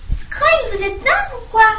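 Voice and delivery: high, loud outraged cry; shouted protest. Acted. Gilfi shouting at her teacher Scrogne, high and loud. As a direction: yell at the teacher in disbelief. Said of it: "cria Gilfi".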